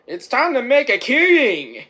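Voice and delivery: high, loud rallying cry; acted movie shout. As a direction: belt it out like a film character. Acts out a line from film.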